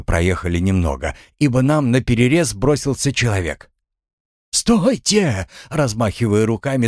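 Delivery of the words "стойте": high shouted stop. A narrator's reading. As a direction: call out to halt riders. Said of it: "закричал он".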